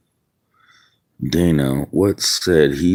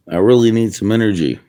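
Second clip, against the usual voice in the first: faster, higher, pushing harder on really; urgent plea; 4 semitones higher, much faster than usual. Real, not acted. Man begging God for energy, quick and urgent. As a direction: blurt it out like a desperate repeated prayer.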